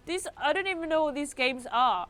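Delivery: clueless commenter voice; whiny know-nothing viewer; mocking commenter. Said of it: "people are always like".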